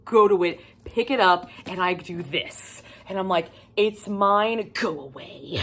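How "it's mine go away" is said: Smeagol. Retold or imitated. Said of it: "I turned into Smeagol".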